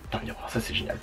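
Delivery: hushed, delighted whisper; excited whisper. Real, not acted. Whispering her delight at the palette mirror. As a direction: whisper it like a little secret thrill.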